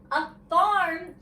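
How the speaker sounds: high, loud group cheer; children shouting. A narrator's reading. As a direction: shout it out as excited kids. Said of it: "shouted the children".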